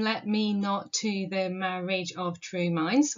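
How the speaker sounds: slow, syllable-by-syllable reading; counting syllables. Shown as a demonstration. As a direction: measure out each syllable evenly. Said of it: "if you count the syllables".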